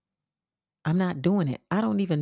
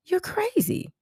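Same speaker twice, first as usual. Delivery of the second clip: mock crazy girl; slower than usual. Mocking the stalker girl.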